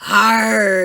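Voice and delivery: loud pirate arr; pirate yell. Acted. The crew yelling as the wave crashes, loud. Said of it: "yell the crew".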